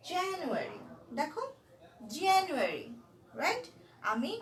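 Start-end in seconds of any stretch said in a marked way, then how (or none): 2.2-2.9 জানুয়ারি with a slight pause after জা; stress on জানুয়ারি. Shown as a demonstration. Teacher models জানুয়ারি for the class with a stressed first syllable. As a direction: say জা, pause, then নুয়ারি. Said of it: "তাহলে আমি কিন্তু stress করছি কোথায়".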